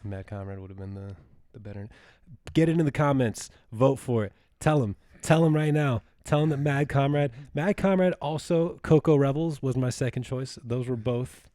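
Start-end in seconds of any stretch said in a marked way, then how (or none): 2.5-10.2 loud, raised-pitch call to action; rallying shout. Real, not acted. Host urging listeners to vote in the comments, rallying shout. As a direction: urge the listeners on, loud and high.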